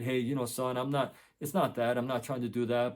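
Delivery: soft, calm retold reply; calm composure. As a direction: keep it softly composed, like a father not rising to it. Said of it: "keep a really calm".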